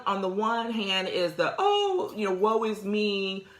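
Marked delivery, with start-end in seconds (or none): 1.6-3.5 mock woe is me. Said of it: "and the crying and the tears".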